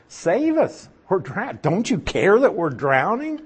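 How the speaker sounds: high-pitched pleading of scared sailors; mock panicked plea. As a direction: act out a frightened cry for help, not fully earnest. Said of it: "they're pretty scared now".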